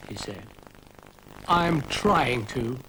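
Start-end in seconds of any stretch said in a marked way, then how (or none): 1.5-2.8 slow, patient reply; patiently. Acted. Dougal to Dylan who ruined the scene, slow and patient. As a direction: hold your temper, slowly. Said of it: "said Dougal patiently".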